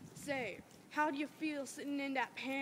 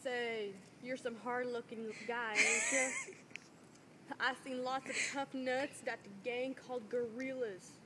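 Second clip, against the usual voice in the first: friendly confidential. Acted. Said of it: "friendly, confidential tone, half mockingly".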